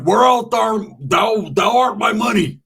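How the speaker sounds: put-on high, slow theatrical old English; Shakespeare actor. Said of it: "like watching a Shakespeare play".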